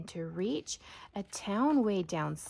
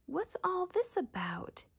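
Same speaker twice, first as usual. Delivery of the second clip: much higher, excited call; shouting crowd; 10 semitones higher than usual. A narrator's reading. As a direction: shout it out in amazement. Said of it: "the people came shouting".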